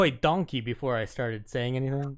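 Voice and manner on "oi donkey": lightly voiced Scottish Shrek accent; hint of Shrek's Scottish burr; Shrek impression. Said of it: "would channel Shrek".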